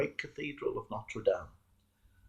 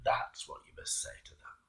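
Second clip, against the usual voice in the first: laughing devil; 9 semitones lower, 8 dB quieter than usual. A narrator's reading. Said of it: "And the devil laughed and said".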